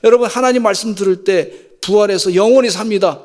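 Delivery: ordinary talk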